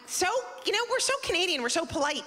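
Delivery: sugary mock politeness; high mock polite voice. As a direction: chirp it like a polite Canadian. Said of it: "I'm like".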